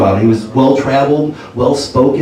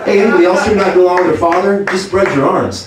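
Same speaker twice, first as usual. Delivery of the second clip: higher, upbeat club-comic patter; stand-up comic Jesus; 5 semitones higher than usual. Retold or imitated. Jesus on the cross opening his comedy set. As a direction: work the room like a cheesy headliner. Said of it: "ultimate stand-up comedian".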